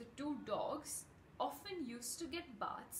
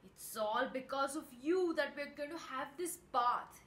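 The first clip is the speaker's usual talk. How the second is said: mildly angry, louder accusing dog; scolding dog character, voice raised a little; cross growling dog; 3 semitones higher, 5 dB louder than usual. A narrator's reading. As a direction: grumble crossly, putting weight on the blame. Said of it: "He growled at Topsy".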